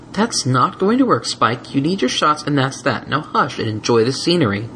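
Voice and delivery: stern but calm; firm mare voice. Acted. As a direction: lay down the law. Twilight firm.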